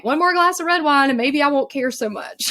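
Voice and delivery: mock her old wine habit with a laugh; laughing self-mockery. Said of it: "I was like".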